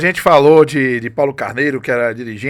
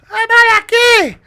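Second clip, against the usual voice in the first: high, slow, stretched shout; Evaristo impression; 4 dB louder, much slower than usual. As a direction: belt it out like Evaristo. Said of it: "Imitando a voz de Evaristo".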